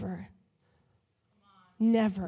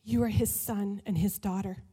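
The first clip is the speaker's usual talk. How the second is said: quiet, tender "you are his son and his daughter"; soft sincere; 4 semitones lower, 3 dB quieter than usual. Shown as a demonstration. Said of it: "repeated line, softer".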